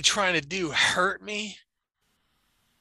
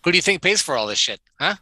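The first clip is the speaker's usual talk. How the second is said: angry; 3 semitones higher, 6 dB louder than usual. Acted. Acted family quarrel on call.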